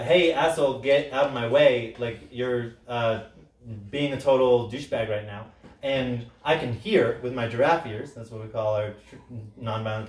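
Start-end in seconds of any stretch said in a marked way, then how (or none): 0.0-5.5 mock insult. Shown as a demonstration. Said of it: "you can say".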